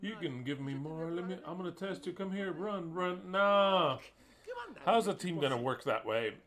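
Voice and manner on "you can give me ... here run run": mocking a soft coach. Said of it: "if you have a coach like this".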